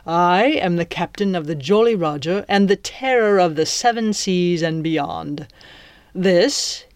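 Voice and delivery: swaggering pirate captain introducing himself. Acted. Captain introduces himself to his captive, boastful pirate voice. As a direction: play a theatrical pirate villain, mock-courteous.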